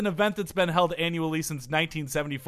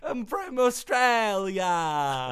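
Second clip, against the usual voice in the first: mock Australian; 4 semitones higher, much slower than usual. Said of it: "That's terrible".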